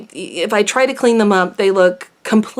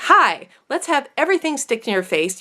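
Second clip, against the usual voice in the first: mock lip gloss voice; 5 semitones higher than usual. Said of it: "it's pretty much like".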